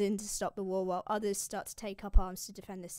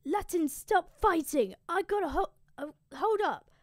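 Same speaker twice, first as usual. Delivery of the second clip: mock commanding call; 8 semitones higher, 5 dB louder than usual. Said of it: "and he shouts".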